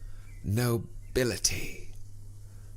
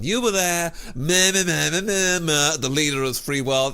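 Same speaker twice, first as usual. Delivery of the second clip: high, louder mock bleating at the mayor; mocking babble; 5 semitones higher, 5 dB louder than usual. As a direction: bleat like a blathering fool.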